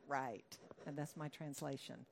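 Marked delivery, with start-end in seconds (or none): 0.1-0.6 sceptical deadpan. Acted. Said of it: "Nathanael's very honest".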